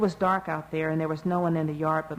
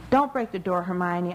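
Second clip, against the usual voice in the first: begging; 3 dB louder than usual. Acted. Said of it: "I begged".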